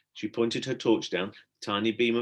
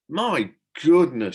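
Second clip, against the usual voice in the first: murmured; 5 semitones higher, 8 dB louder, slower than usual. A narrator's reading. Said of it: "she murmured".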